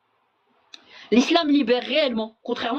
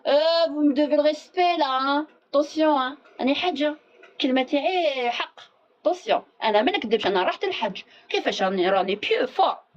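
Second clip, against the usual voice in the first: higher-pitched mock boastful hajja, some Arabic rushed; mock the smug lady back from Hajj; mocking a proud pilgrim; 3 semitones higher, faster than usual. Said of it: "pour dire, eh, le Hajj".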